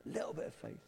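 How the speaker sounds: breathy whisper of A little bit of faith; soft whispered repeat; whispered echo. Shown as a demonstration. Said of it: "a little bit of faith can go".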